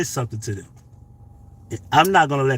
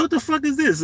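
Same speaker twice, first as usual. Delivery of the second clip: retold outrage; 13 semitones higher than usual. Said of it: "I said".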